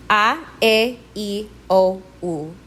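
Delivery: A, E, I, O, U as steady ah, eh, ee, oh, oo; pure Spanish vowels. Shown as a demonstration. Teacher repeating the vowels for learners, pure Spanish A, E, I, O, U. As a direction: say A, E, I, O, U separately, jaw still on each. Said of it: "do not move your lips or jaw".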